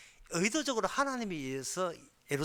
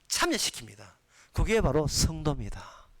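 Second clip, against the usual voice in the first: usual speaking voice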